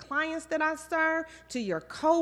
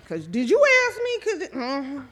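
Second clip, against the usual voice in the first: mock indignant did-you-ask-me; sassy aside; 5 dB louder than usual. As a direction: toss it off with a raised, loud edge. Sassy aside about being asked.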